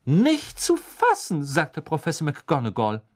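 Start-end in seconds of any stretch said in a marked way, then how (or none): 0.1-1.4 sharp high Ah, then slow and dry; sour. A narrator's reading. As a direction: acid sarcasm. McGonagall sarcastic. (säuerlich, sarkastisch)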